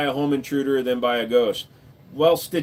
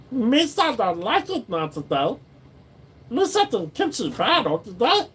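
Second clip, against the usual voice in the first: silly voice; 9 semitones higher than usual. Pretend. Goofy put-on voice after German bit.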